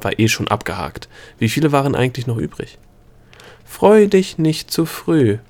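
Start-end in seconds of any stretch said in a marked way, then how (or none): 3.7-5.4 higher, louder, slow warning call; slow, raised call to hold her back; a gnome calling out a stern warning. Acted. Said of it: "rief Opal".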